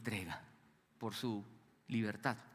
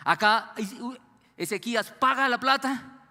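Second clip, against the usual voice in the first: emphatic outburst; 7 semitones higher, 8 dB louder than usual. Real, not acted.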